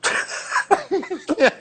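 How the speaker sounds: unvoiced laugh that falls away; airy laugh. Real, not acted. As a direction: laugh under the breath at the dilemma. Laughing at his predicament. (risada abafada)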